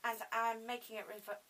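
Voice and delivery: speaking without teeth; toothless, lips over gums. Real, not acted. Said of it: "Sorry, I've got no teeth".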